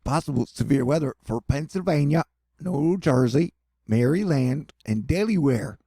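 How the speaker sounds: put-on light Northeast US accent on the place names; a hint of a Northeast accent, playful. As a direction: try a Northeast accent for the forecast. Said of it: "Did I do the Northeast accent correctly?".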